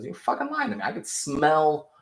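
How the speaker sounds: imitated furious villain; mock menacing Homelander. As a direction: threaten the son who lied. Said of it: "he goes".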